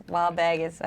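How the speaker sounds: "Wahlburgers" with dropped r's, Boston style; bad Boston accent. Shown as a demonstration. Host fumbling the restaurant name, "Wahlburgers" in badly faked Boston accent. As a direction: attempt Boston vowels on "Wahlburgers". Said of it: "I cannot do a Boston accent".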